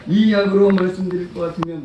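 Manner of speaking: lightly imitated hawker opening a pitch; a hint of street-seller patter; medicine peddler. Preacher mimicking how the seller introduces his medicine, light peddler impression. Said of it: "제가 흉내도 잘 못 내겠어요".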